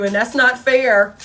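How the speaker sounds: slow, drawn-out sulky whine; mock whiny complaint. Mocking the ex who whines that it's not fair, slow whine. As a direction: drag it out like a sulking child.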